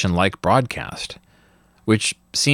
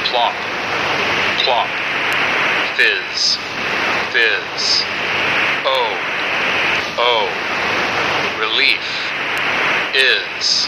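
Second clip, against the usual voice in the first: jingle turned numbers broadcast; much slower than usual. Acted. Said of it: "product's ad jingle".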